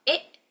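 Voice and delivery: "it" going up in pitch; "it" said with a rising lift. Shown as a demonstration. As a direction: lift the word "it" up. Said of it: "and it kinda go up".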